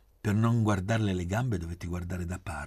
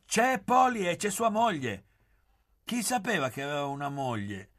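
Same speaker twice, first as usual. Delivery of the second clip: high-pitched, excited outburst; agitated exclamation; 11 semitones higher, 4 dB louder than usual. A narrator's reading. Oreste rushing back from the drive with news, agitated. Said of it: "esclamando agitato".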